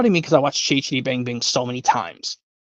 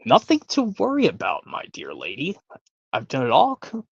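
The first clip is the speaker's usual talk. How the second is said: lightly voiced Willy Wonka welcoming guests aboard; a hint of a showman host, lilting up and down; Willy Wonka boat scene; 2 semitones higher than usual. Wonka greeting his guests on the boat, lightly voiced showman. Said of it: "Yep, from Willy Wonka".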